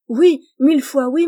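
emphatic delighted assent; joyful acceptance. A narrator's reading. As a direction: accept with overflowing gladness. Joyfully accepts marriage proposal.

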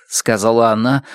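ordinary delivery, nothing marked

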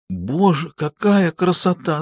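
breathless admiration, a touch choked. A narrator's reading. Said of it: "сдавленно проговорила". (сдавленно, с восхищением)

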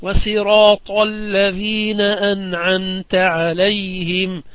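الصراط said as sirat with a plain s, slow. Shown as a demonstration. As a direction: swap the emphatic sad for a light sin in الصراط. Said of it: "قرأ قنبل ورويس بالسين".

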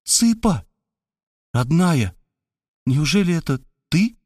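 high, astonished cry; Robert recognizing his old sweetheart; joyful recognition. Acted. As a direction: burst out in delight. Robert recognizes his childhood love.

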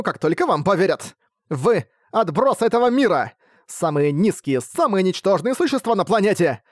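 shouting at class. Acted. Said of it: "кричала".

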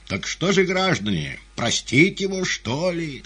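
high, loud question to the crowd; questioning appeal. A narrator's reading. Fagot asking the audience for mercy, high appeal.

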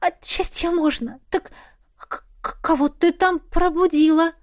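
high, upbeat questioning; lightly voiced sister. A narrator's reading. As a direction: switch the subject brightly. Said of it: "уточнила, меняя тему".

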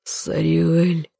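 hoarse, trembling whisper; hoarse shaky whisper. Acted. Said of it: "хриплым, дрожащим голосом прошептал он".

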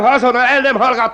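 high, loud and fast; furious warning. Acted. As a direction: snap the threat. Magistrate threatens.

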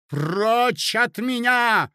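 loud, high, drawn-out cry; desperate cry. Acted. Hostess driven to despair by her accuser, desperate cry. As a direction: push them away with a desperate shout. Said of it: "закричала Марья Александровна, доведённая до отчаяния".

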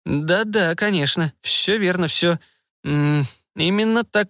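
high, hesitant scientist voice; flustered scientist. A narrator's reading. Scientist confirming the result to officers, high and flustered. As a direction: confirm it eagerly in a high researcher's voice.

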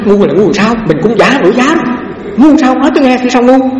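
mock-indignant reply to the master; indignant retort. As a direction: fire the question back, offended. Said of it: "Tôi nói".

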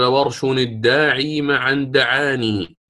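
slow, drawn-out line of verse; didactic verse recital. Shown as a demonstration. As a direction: intone the poem's words measuredly. معلم ينشد بيت المنظومة. (إنشاد متأن للنظم)

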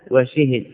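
وشهد as wa-shi-hid; وشهد with matching vowels: shi-hid; double kasra. Shown as a demonstration. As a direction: say وشهد with i on both shin and ha. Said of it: "يجوز فيه أربع لغات".

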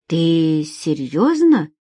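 slow, drawn-out disbelief; disbelieving. Acted. Alex can't believe his ears at her offer, disbelieving. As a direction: let the question stretch out, not believing it. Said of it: "пробормотал он, не веря своим ушам".

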